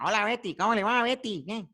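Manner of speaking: lightly voiced Nicolás Mora greeting Betty; Nicolás Mora impression. Teacher imitates Nicolás greeting Betty, lightly voiced telenovela character. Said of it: "por ejemplo, Nicolás, Nicolás Mora".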